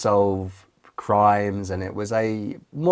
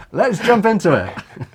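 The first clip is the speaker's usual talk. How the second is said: laughing; 10 semitones higher, 6 dB louder than usual. Real, not acted. Laughing at his own accent slip.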